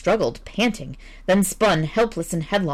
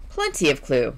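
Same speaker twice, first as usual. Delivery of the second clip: suave; 3 semitones lower than usual. Acted. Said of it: "said Average Jones suavely".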